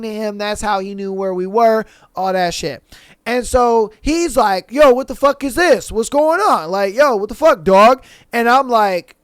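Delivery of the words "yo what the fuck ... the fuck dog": raised, indignant retelling of a challenge; mock angry confrontation. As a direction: confront him like a ticked-off boyfriend, acted out. Retold angry confrontation by boyfriend.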